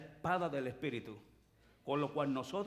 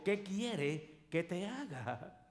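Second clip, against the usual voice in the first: gentle Jesus; 2 semitones higher, much slower than usual. Acted. Jesus asking the blind man what he wants, slow and tender. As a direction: ask him tenderly and slowly. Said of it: "le pregunta Jesús al ciego".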